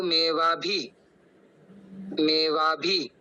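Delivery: मेवा भी slow, short इ in भी; careful pronunciation. Shown as a demonstration. Teacher shows the next words. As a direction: say मेवा भी slowly. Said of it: "उसके आगे हम बढ़ते हैं".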